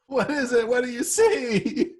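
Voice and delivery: high, drawn-out mock panic; alarmed questioning. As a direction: plead to know, half laughing. Player reacts in character to horror.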